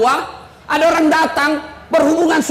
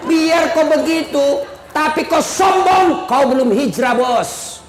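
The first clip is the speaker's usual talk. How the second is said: scolding; 2 semitones higher, slower than usual. Acted. Scolding the self-styled hijrah group.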